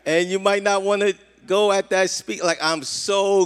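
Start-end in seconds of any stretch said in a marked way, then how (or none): 0.0-2.4 lightly voiced wife, higher and a bit louder; a hint of a wife cautioning from the passenger seat; half-mocking backseat-driver warning; wife's warning. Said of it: "she kinda".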